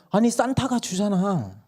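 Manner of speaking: 훨씬 높고 느린 아이 목소리; 마지막 카드를 내미는 꼬마처럼. Retold or imitated. 막내가 산타를 댐. (엄마에게 산타를 내세우는 막내)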